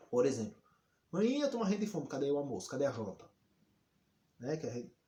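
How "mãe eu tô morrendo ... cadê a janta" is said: exaggerated hungry child. Shown as a demonstration. Child nagging mother for lunch and dinner, hammed-up exaggeration. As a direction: pester mum with hammed-up starving complaints. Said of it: "Consiste em exagerar".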